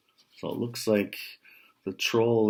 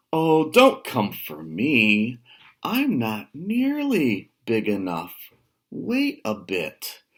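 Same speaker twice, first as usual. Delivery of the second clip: pleading goat; 4 dB louder than usual. Acted. Goat talks the troll out of eating him. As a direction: coax the troll to wait.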